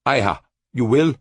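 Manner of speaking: lightly voiced Cultan begging; rising plea. A narrator's reading. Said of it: "Cultan begged".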